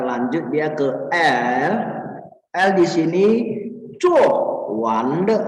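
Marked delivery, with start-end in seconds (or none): 4.0-5.4 "cuo" falls, "wan" rises, short "de"; fourth, second, neutral tones. Shown as a demonstration. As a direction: drop sharply on "cuo", lift through "wande". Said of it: "Nada keempat, kedua".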